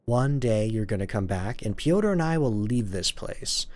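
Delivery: measured, wistful monologue; story narration. Acted. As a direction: read it as a longing vow, with pauses. Reads game monologue aloud.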